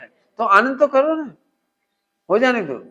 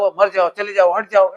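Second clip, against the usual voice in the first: mock yelling; 6 dB louder than usual. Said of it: "जो जोर जोर से बोल रहा है".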